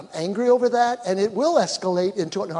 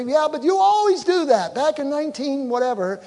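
higher, louder nagging accusation; a spouse dredging up old grievances, raised and accusing; 6 semitones higher, 3 dB louder than usual. Retold or imitated. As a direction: throw the past in their face. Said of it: "Don't say".

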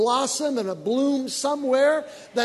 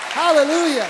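joyful hallelujah; 4 semitones higher, 6 dB louder than usual. Real, not acted. Preacher exclaiming mid-sermon.

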